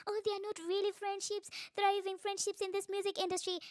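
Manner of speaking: high-pitched mocking imitation; mock dismay, pitched well up; a singer. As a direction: mimic a complaint in a put-on high voice. Mimicking a singer's complaint about friendships.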